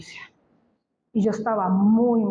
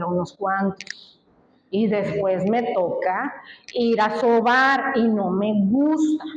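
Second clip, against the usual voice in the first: pleading prayer; 2 semitones lower than usual. Retold or imitated. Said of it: "le dije al Señor".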